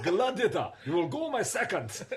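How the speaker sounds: high, loud referee call with a laugh; referee announcer. Retold or imitated. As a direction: bark it like a game show ref. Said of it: "it had to come with a ref".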